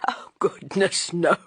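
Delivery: laughing it off kindly; good-natured laugh. A narrator's reading. Inspector reassuring the landlady, laughing good-naturedly. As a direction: brush it aside with an easy laugh. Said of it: "He laughed good-naturedly".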